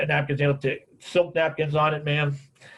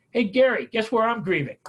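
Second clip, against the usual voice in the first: higher, eager phone greeting; excited caller; 7 semitones higher than usual. Retold or imitated. Woman phoning the speaker with news, excited. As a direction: imitate her bursting to share news.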